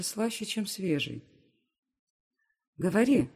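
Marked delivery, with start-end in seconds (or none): 2.8-3.3 demanding. Acted. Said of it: "требую я".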